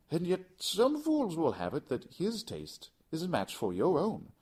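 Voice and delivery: high, loud mock-casual voice; Montresor, goading. Montresor goading Fortunato with talk of Lucrezi, high. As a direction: needle his pride.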